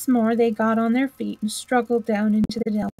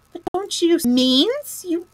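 impatient; 8 semitones higher than usual. A narrator's reading. Rat cries at dull-witted mole, impatient. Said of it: "cried the rat impatiently".

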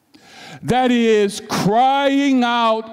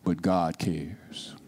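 breathy whisper, much softer; whispered assurance; 11 dB quieter than usual. Acted. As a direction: lean in and whisper it like a secret. Reassuring the troubled congregation.

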